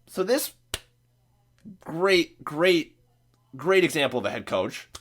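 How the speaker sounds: mock praise, word by word; sarcastic. Real, not acted. Podcast host mocking the head coach's decision, sarcastic. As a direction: sarcastically repeat the praise with pauses between. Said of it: "I'm being sarcastic".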